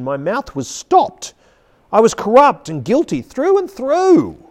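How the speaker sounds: impassioned sermon reading; fervent pulpit delivery with dramatic pauses; preaching. Shown as a demonstration. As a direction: preach it with conviction, stressing the weighty words. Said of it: "preach it to you, really, as I read".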